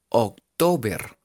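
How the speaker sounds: October slowly as written, "oc-to-ber"; literal reading. Shown as a demonstration. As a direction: sound out October with Spanish vowels. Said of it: "Así literal". (October literal, lento, como se escribe)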